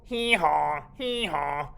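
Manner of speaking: loud, high mock bray; donkey bray. The donkey answering Nieto, braying hee-haw.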